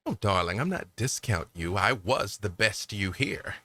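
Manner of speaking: a hint of a haughty accent; put-on NPC accent. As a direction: purr it as the impersonator. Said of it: "Get better at the accent".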